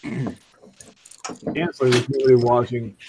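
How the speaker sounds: slow and drawn out; slow reading. Shown as a demonstration. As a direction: read it very slowly. Rereads quote slowly.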